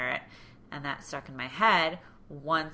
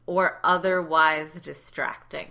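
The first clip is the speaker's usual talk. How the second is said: each word said slowly and louder: "or otherwise distracting"; slow pointed reading; 8 dB louder, slower than usual. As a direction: draw out "or otherwise distracting" with disdain. Reading the absurd dress code.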